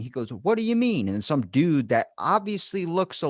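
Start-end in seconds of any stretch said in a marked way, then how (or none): 0.3-1.1 high squeaky mock Tyson, puzzled; Mike Tyson voice. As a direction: squeak it out like a confused boxer. Tyson voiced in cartoon retelling.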